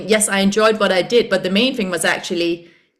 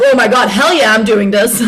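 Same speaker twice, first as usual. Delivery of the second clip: excited yes; 7 dB louder than usual. Retold or imitated. Excited self-talk, laughing.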